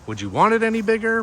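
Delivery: high, fast and loud, mock amazed; excited rhetorical question. Realtor asking viewers, mock amazed, high and fast. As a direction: pitch it way up like you can't believe it.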